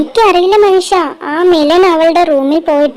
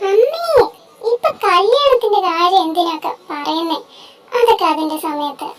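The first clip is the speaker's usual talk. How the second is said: whiny protest; 5 dB quieter than usual. Acted. Daughter protests mother's marriage joke.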